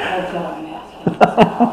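laughing. Real, not acted. Laughing at teasing remark.

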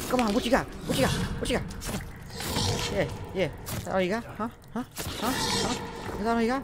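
high, loud taunting yell. Acted. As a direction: bellow taunts at the enemy. Taunting enemy in fight.

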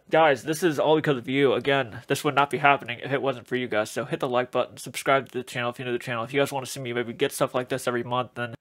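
muffled behind full-head mask; through a face mask. Real, not acted. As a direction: voice dampened by latex covering. Seen 4: Full alien head mask worn over face while talking; slides later.

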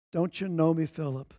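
softly asked, gentle rebuke; Jesus gently asking his friend; polite gentle question. Acted. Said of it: "politely, clearly, accurately".

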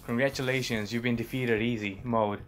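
lightly done mainstream American; plain main American accent. Shown as a demonstration. Reading the game message as a test, light American accent.

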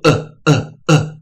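呃 as a short, separate vowel sound; isolated short-u sound on 呃. Shown as a demonstration. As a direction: say 呃 as a short English u, one beat each. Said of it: "发出短母音、".

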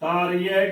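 ਤਾਰੀ ਹੈ merged into taaree-ai; demonstrated mistake, ਤਾਰੀ ਹੈ with silent h; wrong, h dropped. Shown as a demonstration. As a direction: leave out the h in ਤਾਰੀ ਹੈ. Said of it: "ਉਸ ਦਾ ਉਚਾਰਨ ਨਹੀਂ ਕਰਦੇ".

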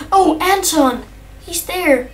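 suddenly finding the lost cat; surprised. Real, not acted. Player spotting his missing cat, glad surprise.

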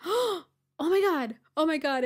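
high, loud, drawn-out shocked gasp; retold horror. Retold shock at sister's blood.

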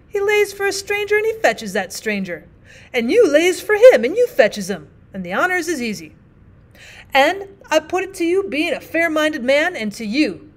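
lightly voiced plain-spoken miner, apologetic; rough miner partner. Partner argues case.

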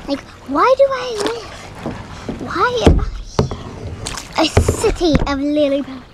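hammed-up, theatrical British lament; loud mock-dramatic British delivery; British accent. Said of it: "This is my British accent".

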